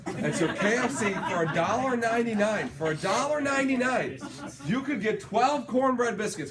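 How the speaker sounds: laughing through the price; grinning, chuckling as you say it; breaking into laughs over the cheap deal. Real, not acted. Laughing while retelling bargain.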